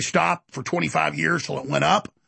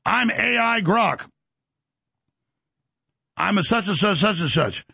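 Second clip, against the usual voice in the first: slow, higher, silky AI assistant; mock AI voice; 3 semitones higher, slower than usual. Phone AI introduces itself to him, silky. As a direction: lightly put on a smooth chatbot voice. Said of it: "AI answers him".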